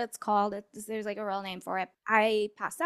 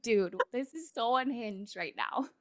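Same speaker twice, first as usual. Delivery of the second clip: laughing disbelief; 4 dB quieter than usual. Retold or imitated. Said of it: "And I'm just like".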